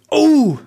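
sudden high loud cry of pain; having a heart attack. A narrator's reading. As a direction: cry out clutching the chest. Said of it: "schrie er und fasste sich ans Herz".

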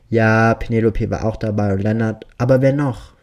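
loud, pushing for the answer; impatient demand, pressing hard. Acted. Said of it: "sagt er ungeduldig".

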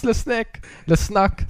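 a hint of a French accent on Le Snack. Shown as a demonstration. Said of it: "sagen die Franzosen dazu".

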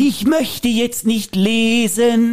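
a lightly voiced husband who flatly refuses; stubborn husband. Husband refusing his wife's walk, lightly voiced. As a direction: play the husband who only wants to sit.

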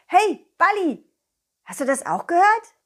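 high excited cartoon dog; bright puppy voice calling out. Dog voice addressing ball.

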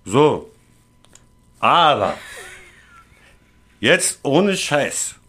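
put-on slurred, dragging drunk talk; town drunk. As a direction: lean in like a tipsy stranger. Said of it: "Also ich bin der Betrunkene".

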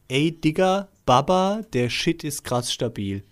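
a touch of a mock youth-slang voice; an older man trying to sound young, lightly hammed; mild imitation of young cooks talking slang; youth slang emphasis. Shown as a demonstration. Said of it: "wenn ich die Betonung mache, klingt das total dämlich".

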